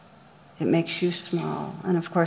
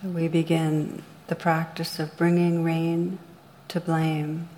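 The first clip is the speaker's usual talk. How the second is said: calm, measured meditation guide with long pauses; guided meditation. Real, not acted. Meditation teacher leading listeners through rain on blame, guided meditation. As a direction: guide listeners gently inward, leaving room between phrases.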